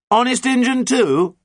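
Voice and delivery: high, loud, slow doubting question; doubtful. A narrator's reading. Captain questions the pirate's oath, doubtful. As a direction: draw it out doubtfully, still calling up. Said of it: "said John doubtfully".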